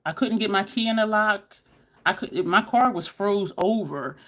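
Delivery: usual speaking voice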